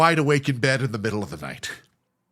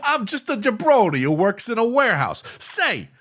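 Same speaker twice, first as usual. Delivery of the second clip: higher, louder sleazy charmer voice; sleazy working guy; 6 semitones higher, 5 dB louder than usual. Retold or imitated. Sleazy neighbour hitting on the tenant, louder and higher. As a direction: lay it on like a greasy charmer. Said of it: "he's like".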